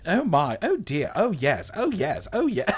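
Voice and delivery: a hint of a prim robot in a tizzy; C-3PO. Reprising the droid in the corner, high mock-fretting voice. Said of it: "C three P O is like".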